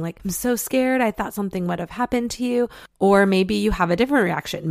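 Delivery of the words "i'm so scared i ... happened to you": imitating a scared, upset partner, higher and fast at the end; half-acted worry, pitched up on scared; mock upset plea. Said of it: "you're so upset and you're bawling".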